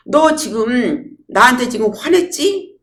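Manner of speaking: high, slow, accusing question; mock phone confrontation. Shown as a demonstration. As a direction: confront a friend in pretend anger. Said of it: "통화하듯이 퍼붓는 거예요". (전화로 화난 척 높고 느리게 따지기)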